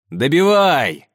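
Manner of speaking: loud shout to finish him. Acted. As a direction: yell it from ringside. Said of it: "кричит Ильхан".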